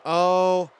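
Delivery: shouted oh my God in disbelief; shocked outburst. Real, not acted. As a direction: blurt it as the screen freezes. Game crashes mid-match.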